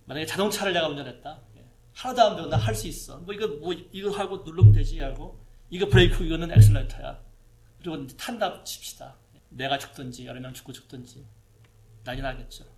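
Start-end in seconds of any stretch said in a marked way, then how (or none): 1.9-7.2 brash, much louder know-it-all bragging; cocky loud boast. Pretend. Preacher playing a reckless new driver, loud cocky bragging. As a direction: shout it like a reckless beginner sure he can drive.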